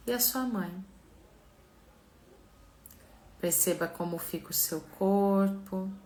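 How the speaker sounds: slow, soft meditation voice; calm, unhurried guiding with long pauses; guided visualization. Acted.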